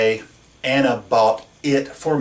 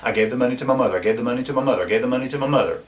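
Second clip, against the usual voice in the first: mock repetitious drone; much faster than usual. Shown as a demonstration. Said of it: "keep saying that over and over".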